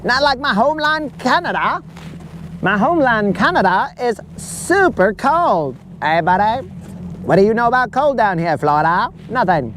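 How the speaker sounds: a friend gone Canadian griping about Florida heat; light, jokey Canadian hoser impression; Canadian accent. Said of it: "he's just gonna go".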